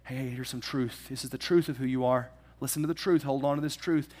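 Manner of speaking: calm someone down with truth; reassuring voice. Retold or imitated. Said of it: "slow things down through the Holy Spirit and say".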